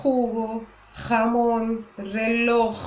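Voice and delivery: "jugo", "jamón", "reloj" with a harsh J from the back of the throat, almost spitting; Spanish throaty J. Shown as a demonstration. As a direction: force the J in "jugo", "jamón", "reloj" as if about to spit. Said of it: "parece que a gente vai cuspir". ("jugo", "jamón", "reloj" com o J forçado no fundo da garganta, como quem vai cuspir)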